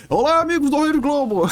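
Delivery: fast, high sportscaster greeting; Galvão Bueno voice; Galvão impression. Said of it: "if I say as Galvão".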